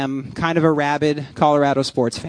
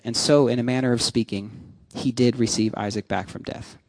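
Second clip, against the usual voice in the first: measured, lower-pitched Bible reading; scripture reading; 3 semitones lower than usual. Acted. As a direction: read the passage out solemnly to a congregation. Reads scripture aloud.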